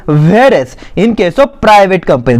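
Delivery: slow, measured reading for note-takers; dictation reading. Acted. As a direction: read out the definition slowly, phrase by phrase. Reads notes aloud for dictation. (धीरे-धीरे notes लिखवाते हुए पढ़ना)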